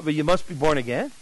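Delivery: soft, "again" rising like a timid question. Retold or imitated. Nervous evangelist repeats himself to the excited man, timidly questioning. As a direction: let "again" lift unsurely, as if asking. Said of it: "little bit of question in his voice".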